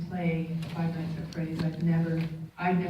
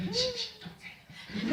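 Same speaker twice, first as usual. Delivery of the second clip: high, hushed, hammed-up kid begging for silence; mock terrified child hushing; scared kid voice; 8 dB quieter, faster than usual. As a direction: squeak it out like a frightened boy, laughing. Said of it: "He's going".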